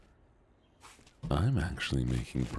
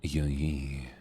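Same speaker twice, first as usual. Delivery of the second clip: whispering. Real, not acted. Quick aside to chat.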